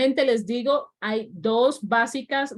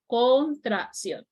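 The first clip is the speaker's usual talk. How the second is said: drawn-out teaching pronunciation; slow model word; 2 semitones higher, much slower than usual. Shown as a demonstration. Teacher spelling a new term out slowly for students. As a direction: stretch each syllable for the class. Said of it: "Y esa sería una contracción".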